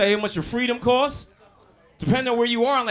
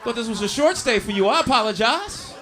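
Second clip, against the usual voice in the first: mock apology; 3 semitones higher than usual. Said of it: "looked Taekwon dead in the face and said".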